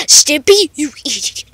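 low, soft cartoon threat; Ren. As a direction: drop low into a cartoon scolding voice. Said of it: "stop doing the ran voice".

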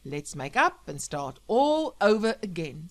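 loud radio host with a touch of emotion; choked-up radio dedication. Acted. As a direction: deliver the plea as a heartfelt on-air message. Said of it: "Sam choked up".

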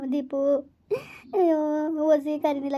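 a sobbed name; crying. Acted. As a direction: cry out the son's name in tears. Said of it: "ಯಾಕೆ ಅಳ್ತೀರಾ". (ಅಳುತ್ತಾ ಹೆಸರು ಕರೆಯುವುದು)

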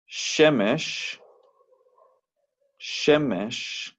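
Shemesh with the stress on SHE, first syllable. Shown as a demonstration. Teacher showing students the stress falls first, stressed SHE-mesh. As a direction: lean on the first syllable of Shemesh, not the end. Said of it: "Nos están indicando el acento aquí, que no es al final".

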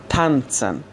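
تانتسن with "ts" in the middle. Shown as a demonstration. Teacher giving an example, تانتسن with t run into s. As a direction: say تانتسن as "tan-tsen".

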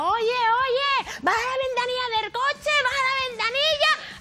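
voz aguda y fuerte de señora gritando; voz de mujer. Retold or imitated. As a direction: chilla como una señora enfadada. Mujer gritando desde el coche. (voz chillona de señora gritando)

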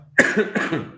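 harsh chesty cough; a real rough cough from the chest. Real, not acted. Cough after smoker-cough comment.

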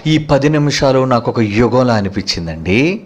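a true lover's soft confession; tender longing. Retold or imitated. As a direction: sigh it to your beloved. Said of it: "నిజమైన ప్రేయసి ఏమంటో తెలుసా".

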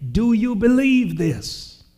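a loud, high, challenging question from the pulpit; preacher's loud challenge. Acted. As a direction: lift the question up to the rafters. Preacher voicing Jesus' challenge.

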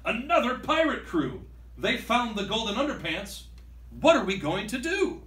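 high, worried outcry; dismayed pirate crew; alarmed pirates. Acted. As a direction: panic about the rival crew. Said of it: "the pirates gasp".

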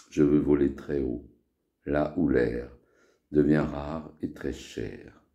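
measured verse, line by line; poem recitation. Acted. Poet reciting a poem to friends, poem recitation. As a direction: recite verse in short phrases, pausing between them. Récite ses poèmes de la semaine.

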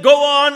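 "Go on" said flat and firm as a statement. Shown as a demonstration. Preacher demonstrating the poem's "Go on" as a statement. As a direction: state it, no question in it. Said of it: "as a statement".

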